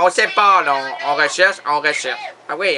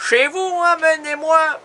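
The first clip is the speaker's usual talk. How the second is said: emotional; 8 semitones higher than usual. Acted. Emotional singing of classic line.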